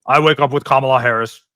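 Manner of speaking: a lightly voiced dopey Walz; lightly mimicking a goofy politician; mock Tim Walz. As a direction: play dumb in a mild mock voice. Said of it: "This is what Tim Walz always said".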